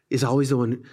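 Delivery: unvoiced, intimate whisper; whispered confession. Real, not acted. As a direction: whisper it as a private admission. Intimate confession mid-sermon.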